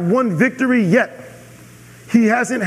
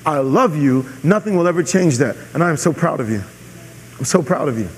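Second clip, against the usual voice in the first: tender parent words; 3 semitones lower than usual. Shown as a demonstration. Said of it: "Tell them before they go into the competition".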